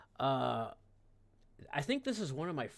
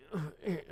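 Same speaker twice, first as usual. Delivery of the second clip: throat noise demo; 5 semitones higher than usual. Shown as a demonstration. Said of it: "like this and stuff".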